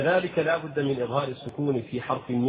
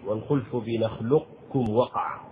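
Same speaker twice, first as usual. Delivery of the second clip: measured, chanted recital of the verse; verse recitation. Acted.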